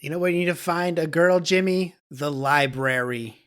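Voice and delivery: mock urgent dad. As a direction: press it on the son like a secret tip. Dad advising son.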